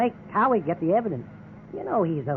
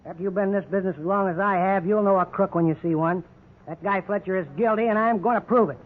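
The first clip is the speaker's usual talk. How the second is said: angry warning; 4 dB louder than usual. Acted. Detective threatens partner.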